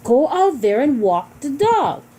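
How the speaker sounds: emphatic order to walk the dog; strong command. Shown as a demonstration. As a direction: insist the dog gets walked now. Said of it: "imperative sentence that expresses strong feelings".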